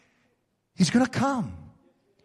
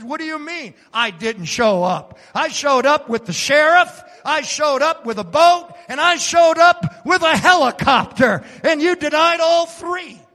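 from plain to much higher and louder; God's building rebuttal; 7 semitones higher, 5 dB louder than usual. Acted. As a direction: stack each showed up, climbing. God answers the drowned woman.

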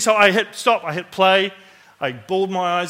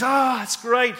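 put-on southern Alabama accent; 6 semitones higher, slower than usual. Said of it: "southern Alabama".

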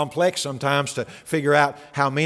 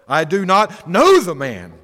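mild oath; 5 dB louder than usual. Retold or imitated. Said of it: "denied it with an oath".

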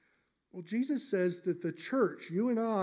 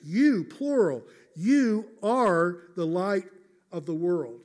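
you punched louder and slowed down; emphatic you, slow and louder; stressed you; 6 dB louder than usual. Shown as a demonstration. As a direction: preach you are the light with weight on you. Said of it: "if it's really important".

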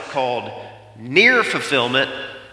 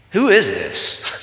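astonished question; 4 semitones higher, slower than usual. Retold or imitated. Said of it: "what would you think?".

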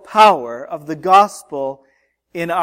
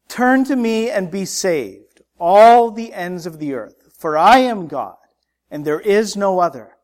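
forceful, measured proclamation in short phrases; preacher's solemn, emphatic reading; impassioned scripture reading; 4 semitones higher, 5 dB louder than usual. Real, not acted. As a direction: declaim God's words to the congregation.

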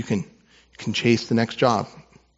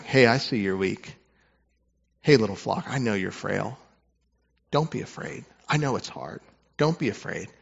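tender reassurance. Acted. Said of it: "This is Jesus saying".

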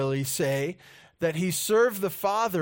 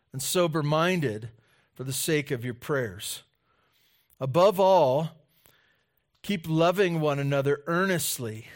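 scripture reading. Acted. Reads scripture aloud.

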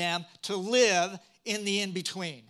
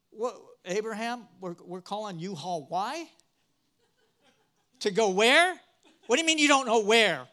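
incredulous wife. Retold or imitated. Wife's incredulous reaction imagined.

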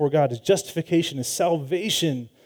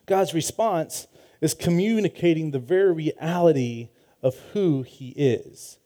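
usual speaking voice

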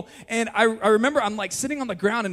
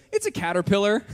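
tentative, mock-delicate delivery; imitated gentle reveal. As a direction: break the news gently, imitating a wife. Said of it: "She's trying to be gentle with me".

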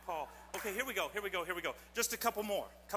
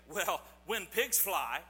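doubtful saying; 3 semitones lower, slower than usual. Retold or imitated. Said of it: "They say".

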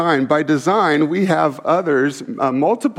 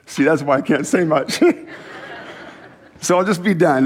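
choked up. Real, not acted. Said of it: "I didn't plan to cry".

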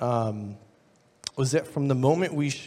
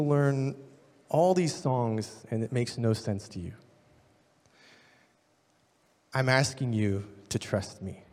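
reassuring; 3 semitones lower, 5 dB quieter than usual. Retold or imitated. Professor reassuring frustrated students.

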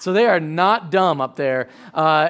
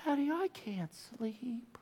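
Titus; 6 semitones higher, 14 dB quieter, slower than usual. Retold or imitated. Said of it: "here he comes again".

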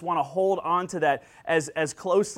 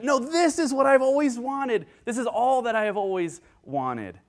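high, louder, over-the-moon exclamation; hammed-up child's elation; ecstatic kid; 7 semitones higher, 3 dB louder than usual. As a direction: top the last gift with even more delight. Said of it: "And then the next gift".

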